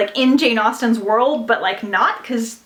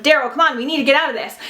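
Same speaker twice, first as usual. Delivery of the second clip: lightly voiced American girl, pitched up; a hint of Valley Girl, higher and urging; 4 semitones higher, faster than usual. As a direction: imitate a narrator's American girl character. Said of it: "like, an American girl that'd be like".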